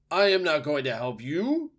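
high, loud refusal; owl screech. A narrator's reading. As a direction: screech down from the very top of the tree. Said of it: "screeched the owl from the very top".

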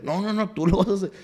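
acted-out overruling of a reluctant friend; insistent retort. Acted insistence in retold argument.

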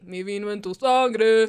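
slow lazy croon; impression of a singer. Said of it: "está imitando a un cantante".

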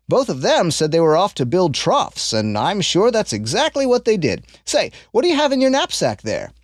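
lightly voiced kindly old man; a hint of an old stranger, curious; old man sizing up the boy's honesty, lightly voiced. Old man speaks to Ashlad.

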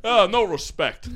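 slow comic impression, lightly done; a hint of a complaining stand-up; Rodney Dangerfield. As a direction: imitate the comedian's catchphrase, drawn out. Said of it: "That's Dangerfield".

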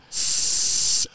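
sustained "sss" sound; imitated hiss. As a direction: hiss a long, steady S. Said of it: "Brian was going".

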